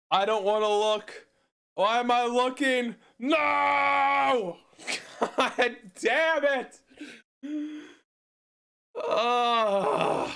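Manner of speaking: high-pitched wail of dismay; anguished outburst. Real, not acted. Card player seeing the bad result, anguished high wailing. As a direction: cry out in drawn-out, high frustration.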